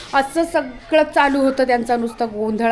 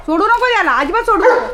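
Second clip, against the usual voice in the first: high, loud, excited cries of don't let go; excited high shouting; excited loud urging; 9 semitones higher, 4 dB louder than usual. Real, not acted. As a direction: yell at them not to let go, pitched way up. Excitedly urging someone over a dog.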